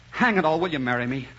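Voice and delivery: blurts out "hang it all, will you marry me?" in one rush, stress on "hang"; flustered blurt. Acted. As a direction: give up on the speech and just pop the question. Flustered man blurts out proposal.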